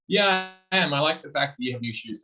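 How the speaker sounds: high, upbeat acted reply to a jab; brightly pitched, good-natured comeback; sincere, not sarcastic. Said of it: "and not, like, in a sarcastic".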